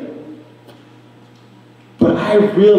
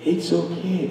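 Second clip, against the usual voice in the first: much softer, almost breathed, it's okay; mother soothing her angry child, softly; mom's hushed reassurance; 13 dB quieter than usual. Retold or imitated. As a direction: gently whisper it's okay to calm her. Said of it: "she was like".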